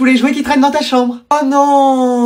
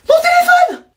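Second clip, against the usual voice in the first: anguished cry; slower than usual. Acted. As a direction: wail for the lost phone. Phone switched off.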